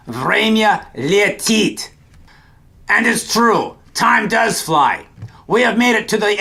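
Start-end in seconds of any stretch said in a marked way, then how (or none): 0.1-1.9 slow, careful Время летит again for the class; slow echo of Время летит; slow repeat. Shown as a demonstration. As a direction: repeat Время летит slowly for learners to copy. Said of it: "the Russian way of saying time flies".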